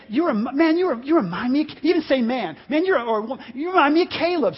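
fired-up call, rising to a shout on Caleb; excited, sincere. Shown as a demonstration. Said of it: "I want you to say".

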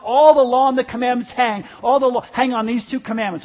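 loud, driving sermon delivery; impassioned preaching. Real, not acted. Preacher summing up Jesus's commandments to the congregation, impassioned preaching.

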